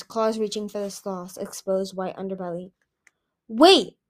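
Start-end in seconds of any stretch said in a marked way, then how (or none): 3.5-4.0 loud, raised cry to stop; cried out. A narrator's reading. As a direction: call out in alarm. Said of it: "Moon cried".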